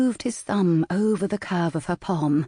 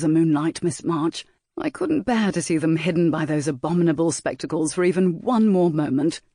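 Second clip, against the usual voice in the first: lightly voiced rake, teasing. Saint Ashton confesses, flatters her.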